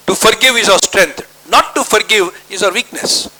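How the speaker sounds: very slow, each word spaced out; slow emphatic English. Acted. Preacher translating his point for the congregation, very slow. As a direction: spell it out word by word for the church.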